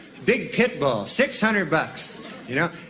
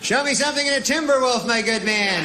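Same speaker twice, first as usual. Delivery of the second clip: posh shopper; 7 semitones higher than usual. Retold or imitated. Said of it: "I'd be saying".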